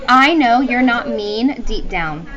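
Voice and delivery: slow, lightly voiced reassuring teacher; gentle teacher. Teacher reads Mr. Terupt reassuring Lexi, slow. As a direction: ease it out slowly, kind but firm. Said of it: "Teach went on".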